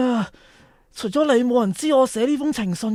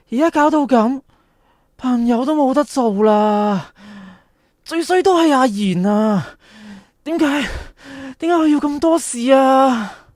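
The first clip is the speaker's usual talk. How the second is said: frustrated venting; 2 semitones higher, 4 dB louder than usual. Acted. Venting blame at Ah Yin.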